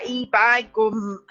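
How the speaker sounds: slow, hammed-up Yorkshire saying; Yorkshire accent. Joking about Yorkshire actors, slow mock Yorkshire accent.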